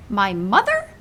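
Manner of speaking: a touch of surprised outcry; the giant crying out in surprise; cried out. Acted. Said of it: "cried the B F G".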